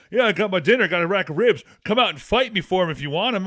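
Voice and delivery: put-on loud taunting old man; cocky old umpire. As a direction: dare them to come fight. Quoting old umpire's challenge.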